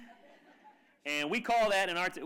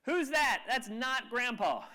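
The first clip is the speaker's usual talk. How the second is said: high startled yell, slowing on the second line; granddaughter yells; 6 semitones higher, slower than usual. Retold or imitated. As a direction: shout it out in shock at the photo. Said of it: "And the granddaughter yells".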